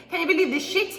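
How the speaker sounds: high, laughing incredulous cry; can't believe it, laughing; laughing disbelief. Real, not acted. Mock disbelief at YouTube.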